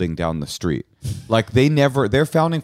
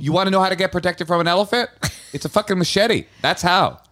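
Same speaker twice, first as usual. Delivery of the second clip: excited laughing brag; 9 semitones higher than usual. Real, not acted. Laughing brag about machete.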